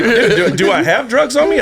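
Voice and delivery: mock-nervous questioning; retold nervous panic. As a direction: act out panicked self-doubt, amused. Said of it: "I've never been this nervous".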